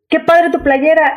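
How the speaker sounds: a hint of del Toro praising the shirt; quoting del Toro. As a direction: lightly voice the director's compliment. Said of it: "me dice el señor".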